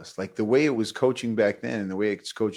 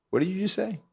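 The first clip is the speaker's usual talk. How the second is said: stern coach; 10 semitones higher than usual. Retold or imitated. Coach confronting player.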